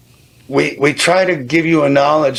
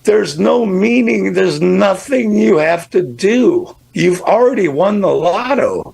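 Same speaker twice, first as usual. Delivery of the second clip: choked up; 6 semitones higher than usual. Real, not acted. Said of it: "It makes me cry".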